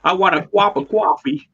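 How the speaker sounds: New England accent. Shown as a demonstration. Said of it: "sort of more New England".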